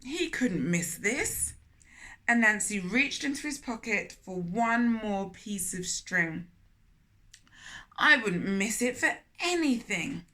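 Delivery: put-on storytelling voice for children; gentle read-aloud storytelling; story narration. A narrator's reading. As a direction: read it like a picture book aloud. Reads Anansi story to children.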